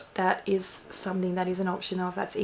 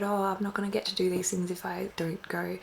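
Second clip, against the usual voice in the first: whispered worried inner thought; whispering; 5 dB quieter than usual. Retold or imitated. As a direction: whisper the fear to yourself. Imagined anxious thought.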